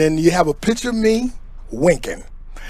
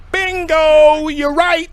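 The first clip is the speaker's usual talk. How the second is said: high loud bingo shout; excited; 10 semitones higher, 4 dB louder, slower than usual. Acted. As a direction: announce it like a win. Triumphant quiz answer.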